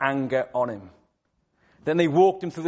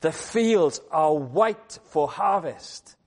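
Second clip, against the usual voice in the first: a hint of a gentle urging teacher; urging gently; 2 semitones higher, slower than usual. Jesus to his disciples, lightly urging them to look up. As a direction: lift their eyes, slow on the last line. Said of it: "Jesus Christ says to them".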